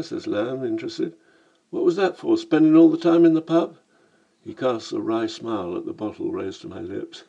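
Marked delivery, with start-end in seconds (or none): 1.7-3.8 cheeky Cockney "Blimey, mate"; brash London Cockney greeting; Cockney accent. Acted. Lamb remarking on the narrator's accent, in Cockney. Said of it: "a Cockney in Venice".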